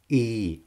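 І drawn out with a smile; long English i. Shown as a demonstration. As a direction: stretch the І long. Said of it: "Протяжно так". (протяжне англійське і)

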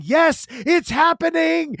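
high, drawn-out mock scream of joy; excited screaming. Fan re-enacts hearing the long-awaited song, excited screaming. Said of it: "you hear me screaming".

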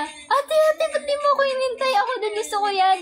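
high, pleading little-sister voice; kid sister voice. Retold or imitated. Imitating her little sister begging to join, high and whiny. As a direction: whine like a younger sister left behind. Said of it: "Sabi niya".

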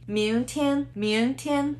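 明天 with 明 rising, 天 high and level; deliberate 明天, upward then level; second and first tone. Shown as a demonstration. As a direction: lift 明, then hold 天 even. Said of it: "Second and first".

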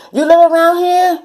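high, loud "You live around here?"; surprised question. Retold or imitated. The friend, a high surprised question. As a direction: act taken aback.

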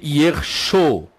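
"Yersho" as yer-SHO, ending on o; demonstrated pronunciation. Shown as a demonstration. Teacher showing the second form, "Yersho" as yer-SHO. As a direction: hold the final SHO in "Yersho". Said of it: "e essa pronúncia aqui".

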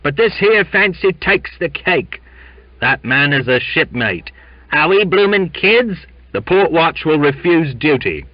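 high, loud, rough-edged agitation; gruff protest. A narrator's reading. Sailor threatening to refuse duty, gruff and defiant. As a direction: rail at the officers for the crew. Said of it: "said a gruff voice".

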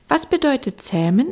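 put-on high, quick child question; little prince. Little prince pressing the fox, high child voice.

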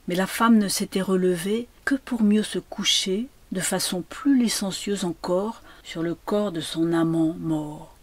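ordinary delivery, nothing marked

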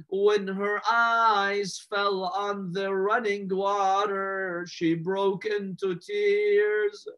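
very slow, drawn-out elegy; mournful lament. Acted. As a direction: stretch every phrase toward weeping. Mourning recital of child's tears.

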